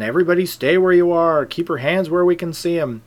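retold urgent police order; police command.

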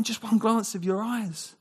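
slow, tender longing. Retold or imitated. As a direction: linger over each word like a lover. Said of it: "He's going".

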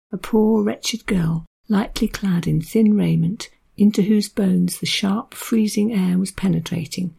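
measured, unhurried literary reading; story narration. A narrator's reading. Reads Trollope extract aloud.

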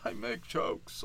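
slow, breathless whispered repeat; mock whisper. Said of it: "I don't need to see".

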